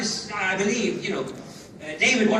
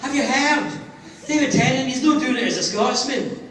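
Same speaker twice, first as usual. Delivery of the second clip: loud, higher-pitched excited caller; Scottish newspaper caller; 4 semitones higher, 7 dB louder than usual. Retold or imitated. Newspaper phoning an actor for a reaction, excited caller voice. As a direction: ring up with big news, pitched up. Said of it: "newspapers in Scotland phoned me up".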